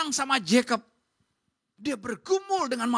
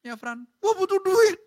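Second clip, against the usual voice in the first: high, loud demand for help; demonstrated outcry, high and forceful; blunt acted plea; 8 semitones higher, 6 dB louder than usual. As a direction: call it out frankly, voice raised.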